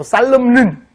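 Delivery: "살름는" with the silent N wrongly sounded; wrong pronunciation. Shown as a demonstration. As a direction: misread "살름는", adding an extra N syllable. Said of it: "이러지 마시고요".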